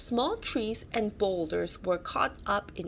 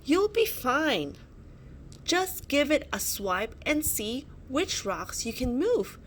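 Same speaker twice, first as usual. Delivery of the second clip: urgent shout; 5 semitones higher than usual. A narrator's reading. Olivia urging Archie to act fast, high urgent shout. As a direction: shout encouragement, then hurry him. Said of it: "shouted Olivia".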